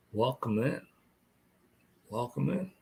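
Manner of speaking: through a yawn. Real, not acted. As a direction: say it mid-yawn, mouth stretched. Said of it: "I keep yawning".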